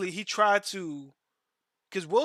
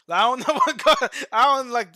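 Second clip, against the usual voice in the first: laughing; 6 semitones higher, 9 dB louder, faster than usual. Real, not acted.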